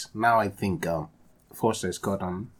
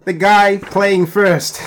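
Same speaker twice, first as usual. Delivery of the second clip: put-on African accent; 7 semitones higher, 6 dB louder, much slower than usual. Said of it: "Especially my African accent".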